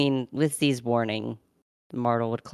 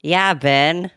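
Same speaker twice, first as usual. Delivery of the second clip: pointed, louder accusing call; calling Ben out; accusatory; 4 semitones higher, 7 dB louder than usual. Real, not acted. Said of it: "I don't know why I sounded so accusatory".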